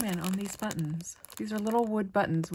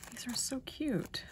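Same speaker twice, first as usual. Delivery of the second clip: whisper; 4 semitones higher, 7 dB quieter than usual. Real, not acted. Whispered delight.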